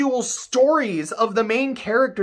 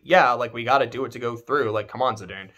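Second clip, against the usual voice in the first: Garnet; 9 semitones lower, 3 dB quieter, faster than usual. Retold or imitated. Garnet voiced urging Zidane.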